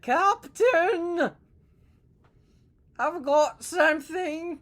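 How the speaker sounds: high, loud, urgent shout to the captain; alarmed sailor calling out. Acted. Sonar man calling the captain.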